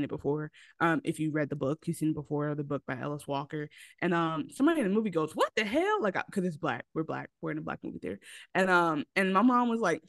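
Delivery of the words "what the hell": high-pitched mock disbelief; imitating shocked moviegoer. Quotes a shocked moviegoer's outburst.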